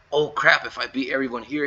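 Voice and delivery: a touch of giddy excitement in a quote. Retold or imitated. Player voicing a fighter sizing up his rivals, mildly giddy. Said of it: "getting giddy".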